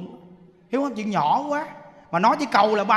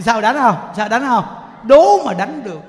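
loud challenge; 9 dB louder than usual. Pretend. Challenges anyone to strike the chanter.

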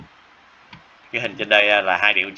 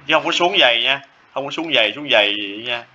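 teacher warns students not to draw the falling line thick, raised firm voice; firm warning; 3 semitones higher than usual. Real, not acted. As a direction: snap up to correct a likely error. Teacher warns against thick lines.

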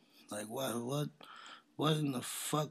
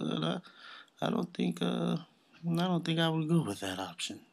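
higher, careful mock voice; mock white dude; 7 semitones higher than usual. Imitating the white dude beside the rapper, mock hesitant. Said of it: "white dude sitting right next to him".

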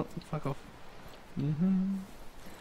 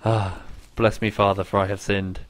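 hushed confession whisper; 12 semitones lower, 8 dB quieter than usual. Pretend. Mock confession to teammate.

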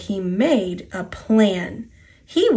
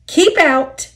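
higher, louder order; warning call; 6 semitones higher, 5 dB louder than usual. A narrator's reading. Three engines bar Duck from the shed, warning call. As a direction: call out a sharp storybook warning.

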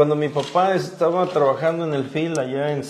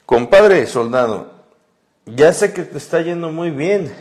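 lectura de carta en tono de leve reclamo; reproche y reclamo. Acted. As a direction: reprocha sin alzar mucho la voz. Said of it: "me está reprochando y reclamando". (como compadre que reclama, con reproche contenido)

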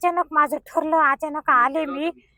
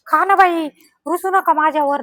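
coaxing the cow; 2 semitones higher, 4 dB louder than usual. Real, not acted. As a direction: sweet-talk a sulky cow into eating.

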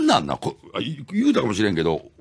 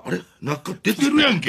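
mild mock surprise; 2 semitones higher than usual. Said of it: "みたいな".

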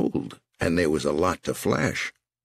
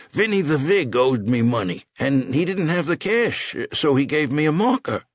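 put-on panicked old man; 9 semitones higher than usual. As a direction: beg fast before he's dropped.

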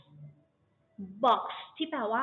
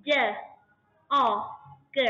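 spelling letters; much slower than usual. Shown as a demonstration. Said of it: "dog แบบนี้".

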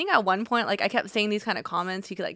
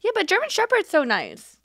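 put-on quoting boyfriend; 11 semitones higher than usual. Boyfriend quoted, high.

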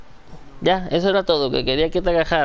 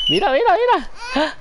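habla de bebé. Real, not acted. High baby talk. (vocecita aguda para el bebé)

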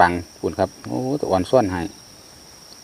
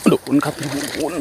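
higher, thrilled call of a bite; excited call; 6 semitones higher than usual. Real, not acted. Angler calling out a bite to his viewers, excited. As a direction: shout the catch out to the viewers. Fish strikes, calls to viewers.

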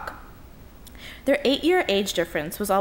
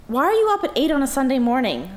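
higher, louder call across the hall; said loudly; 7 semitones higher, 4 dB louder than usual. Acted. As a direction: raise it to drown out the noise. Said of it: "Leah said loudly".

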